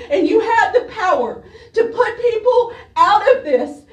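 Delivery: pushing words through real tears; crying. Real, not acted. Mother pleading about sick son.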